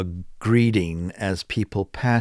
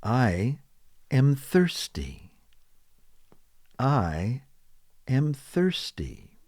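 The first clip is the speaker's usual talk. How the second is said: slow demo; 4 semitones higher, 4 dB quieter, slower than usual. Shown as a demonstration. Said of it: "How are you?".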